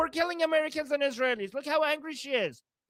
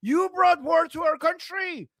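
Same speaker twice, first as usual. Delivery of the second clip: angry shout; 3 semitones higher, 3 dB louder than usual. Real, not acted. Ranting back at angry woman.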